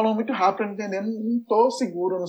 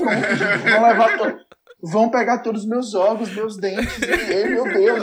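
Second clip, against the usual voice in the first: laughing panic. Retold or imitated.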